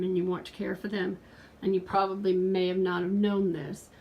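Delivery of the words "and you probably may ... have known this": breathless, gasping between words; out of breath. Real, not acted. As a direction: talk while winded. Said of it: "I'm out of breath".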